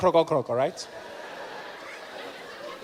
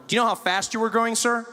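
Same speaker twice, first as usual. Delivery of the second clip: American policeman; 4 semitones higher than usual. Retold or imitated. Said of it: "Policeman walked up to my window".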